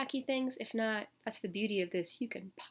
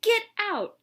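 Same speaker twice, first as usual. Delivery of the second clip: mock stern get out; 12 semitones higher, 10 dB louder than usual. Teacher throws boy out.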